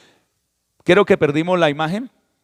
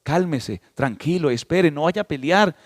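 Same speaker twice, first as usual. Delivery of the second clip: mock soothing. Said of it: "que le digan a un pastor".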